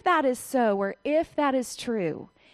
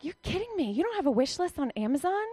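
mock disbelief; 4 semitones higher, 3 dB quieter, faster than usual. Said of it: "I read that and I'm like".

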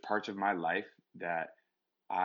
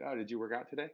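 higher-pitched, mock passive-aggressive question; 4 semitones higher, faster than usual. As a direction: imitate a partner's loaded little question. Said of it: "slide in some passive aggressive".

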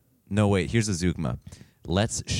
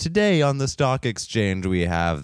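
mock news anchor. Mock stock market news report.

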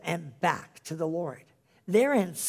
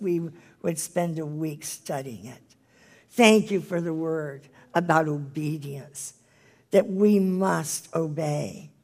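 earnest spoken prayer to the Lord; closing prayer. Acted. The speaker leads her listeners in a closing prayer. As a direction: pray it plainly and earnestly.

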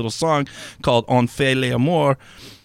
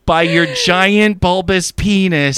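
slow, higher, hammed-up flattery; mock satisfied; 5 semitones higher, 3 dB louder, slower than usual. Imitating partner placating him in bed, mock satisfied. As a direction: imitate a lover overdoing the praise.

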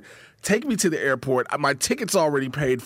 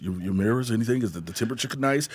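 low, soft, eager-to-please driver; polite chauffeur voice; 5 semitones lower, 3 dB quieter, faster than usual. Retold or imitated. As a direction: fuss over him like a hotel driver.

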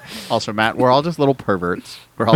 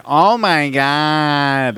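mock moan; 4 semitones higher, much slower than usual. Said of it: "they were like".

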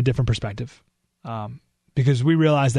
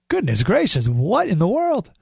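exasperated disbelief; 4 semitones higher than usual. Real, not acted. Exasperated at endorsement reason.

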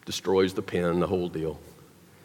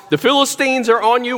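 retold shout; 7 semitones higher, 4 dB louder than usual. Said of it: "then she shouts".

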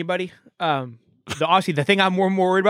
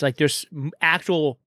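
talking around an ice cube; words blurred by ice in the mouth; slower than usual. Real, not acted. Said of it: "Sorry, I had an ice cube".

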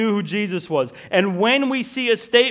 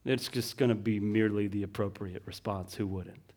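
quiet aside; 12 semitones lower, 13 dB quieter than usual. Acted. Soft low sermon aside.

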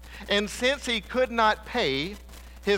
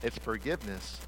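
much softer, lower, intimate appeal to the room; soft earnest preaching; 5 semitones lower, 7 dB quieter than usual. Acted. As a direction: bring it down close, pleading gently. Soft appeal to congregation on forgiveness.

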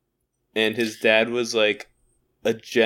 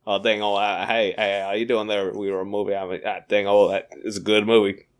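Boomhauer voice; 4 semitones lower than usual. Pretend. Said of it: "I have a voicemail from Boomhauer".

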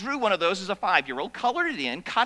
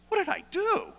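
whispered, bewildered question; frightened reply; 9 semitones higher than usual. Retold or imitated. Threatened boy answers the bully, frightened whisper. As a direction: whisper it, scared and confused. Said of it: "I'm like".

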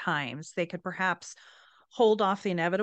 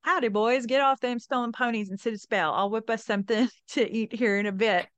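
put-on old cowboy voice; 3 semitones higher, 3 dB louder than usual. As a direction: play a friendly old cowboy calling out. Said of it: "said in Spanish something like".

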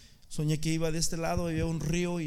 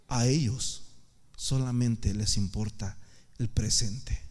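very low, slow heavenly voice; deep, grave divine verdict; voice of God; 10 semitones lower, slower than usual. Retold or imitated. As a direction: pronounce it slowly and solemnly, as God. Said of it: "escuché la voz de Dios que me dijo".

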